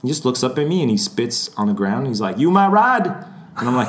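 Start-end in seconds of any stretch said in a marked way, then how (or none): 2.4-3.1 retold huffy demand, high and loud; pissed Southerner. Celebrity mistaking a fan for his chauffeur, pissed Southerner. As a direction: imitate an irate Southerner challenging someone. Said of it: "pissed. He was, he was in a huff".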